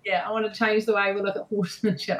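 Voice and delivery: half-hearted Australian accent. Shown as a demonstration. Guest finishing purpose answer, half-hearted Australian accent. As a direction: try to hold an Australian accent. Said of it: "I can't do that one".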